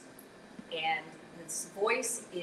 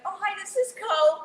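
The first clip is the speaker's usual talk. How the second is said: changed voice; 12 semitones higher, 12 dB louder than usual. Retold or imitated. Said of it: "Completely changed my".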